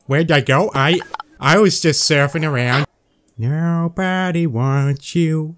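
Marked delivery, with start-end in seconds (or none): 3.4-5.5 slow, drawn-out mock taunt; mock cruel taunt. Taunting the in-game fan, slow mock cruelty. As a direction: tease it slowly and coldly.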